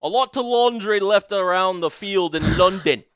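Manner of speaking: a light Irish lilt on the line; a partner hears a hint of Irish in it; Irish accent. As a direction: say it like an Irishman would. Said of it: "That sounds more Irish".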